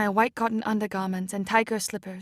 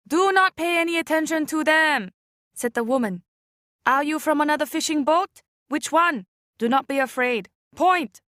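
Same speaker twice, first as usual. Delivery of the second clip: reassuring woman; 4 semitones higher, 3 dB louder than usual. Acted. Boat woman reassures girl.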